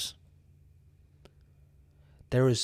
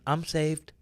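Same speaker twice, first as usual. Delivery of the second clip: higher, smug mock-cheerful voice; mocking complacent Christian; 4 semitones higher than usual. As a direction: mimic a lazy, self-satisfied believer. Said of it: "you can go on just saying".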